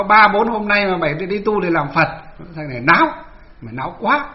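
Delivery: mildly acted stern rebuke from an old master; imitating an elder monk telling someone off; retold scolding. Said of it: "cụ mới quát cho một cái".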